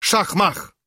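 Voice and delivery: high squeaked slogan; high gleeful squeak. Acted. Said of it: "to pisnął Brzytwa".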